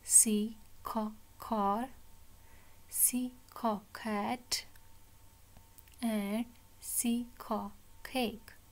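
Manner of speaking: "सी", pause, short "ख", then "car"; letter, sound, word. Shown as a demonstration. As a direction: sound out "C, ख, cake" in separate beats. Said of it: "इसको हम पढ़ेंगे ख". ("सी, ख, car" रुक-रुककर)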